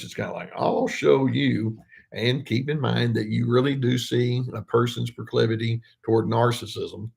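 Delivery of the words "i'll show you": slow, drawn-out show of control; a hint of a controlling power voice. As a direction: draw it out as a mild mock threat. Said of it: "go into that power voice".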